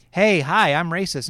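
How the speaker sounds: lightly voiced chirpy self-announcing racist; hammed-up cheery hello; mock cheerful racist. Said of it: "raise the flag and say".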